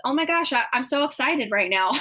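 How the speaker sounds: bright burst of excitement on oh my gosh; excited. Shown as a demonstration. Host shows her go-to line for live mistakes, excited. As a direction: gush about being excited. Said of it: "Mine is".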